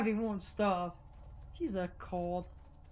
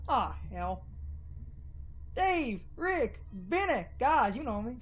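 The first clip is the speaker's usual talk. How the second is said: light Southern drawl for the townsfolk. Acted. Townsfolk cornering Lerv, in a light Southern drawl. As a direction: lean a little into a Southern accent. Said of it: "I love doing Southern drawl".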